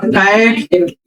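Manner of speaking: कैट slowly, with open "ae" as in cat; open AI vowel. Shown as a demonstration. Teacher giving an ऐ example, कैट with drawn-out "ae". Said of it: "आय का जरा बताओ".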